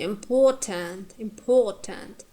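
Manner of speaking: "important" said as im-POR-tant, a teacher's stress example; stress on middle syllable. Shown as a demonstration. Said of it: "poor is".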